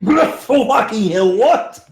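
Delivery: real laugh breaking into shocked what; laughing disbelief. Real, not acted. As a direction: crack up in outraged disbelief. Player reacts to absurd fee.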